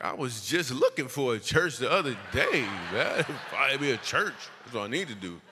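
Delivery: laughing, over-keen agreement; hammed-up eagerness. Comic suddenly keen on church for beautiful fiance, hammed-up eagerness. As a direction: ham up a sudden eager yes.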